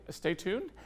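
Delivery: ordinary delivery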